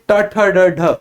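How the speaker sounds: ट ठ ड ढ said as a row, tongue curled to the roof of the mouth; retroflex demo. Shown as a demonstration. Teacher has students feel the tongue, crisp retroflex row. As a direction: run through ट ठ ड ढ crisply for the class. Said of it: "जरा बोलकर देखिए".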